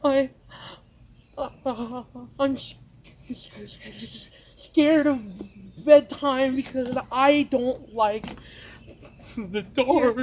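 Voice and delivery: put-on a stammering, halting scared child; a lightly voiced anxious kid, halting and broken. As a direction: stutter through the fear, softly. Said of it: "more anxious with your voice".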